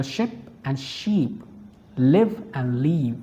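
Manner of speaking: short vowel in ship and live, long in sheep and leave; minimal pairs. Shown as a demonstration. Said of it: "Practice minimal pairs".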